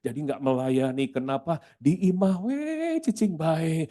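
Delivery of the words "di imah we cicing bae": voice of public opinion. Retold or imitated. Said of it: "Itu opini umum".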